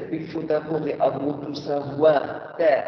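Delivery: slow and emphatic, drawn out; slow weighty maxim. Shown as a demonstration. Teacher repeating the rule to the class, slow. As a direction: spell the rule out slowly. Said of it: "Moi, je vais dire".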